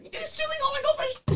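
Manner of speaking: high, playful protest; playful outrage. Real, not acted. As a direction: squeal at the snack thief. Playful complaint about snack theft.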